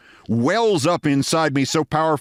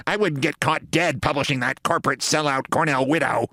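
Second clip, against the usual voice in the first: acted scornful dismissal in another voice; snorting scorn. Student comedian scorning the humor magazine, snorting. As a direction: throw it off with contempt. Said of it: "And he snorts and says".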